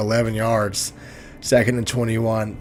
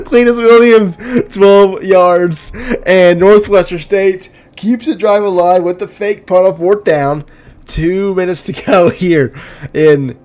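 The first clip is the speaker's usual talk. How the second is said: loud, raised-pitch big-play call; excited play-by-play; 7 semitones higher, 9 dB louder than usual. Real, not acted. Announcer calling a successful fake punt, excited play-by-play. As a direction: keep the thrill up, calling it loud and high.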